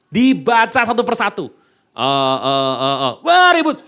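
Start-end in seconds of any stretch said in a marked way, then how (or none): 1.9-3.9 lightly voiced rowdy crowd; noisy congregation. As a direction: imitate restless churchgoers chattering. Mimics restless noisy congregation.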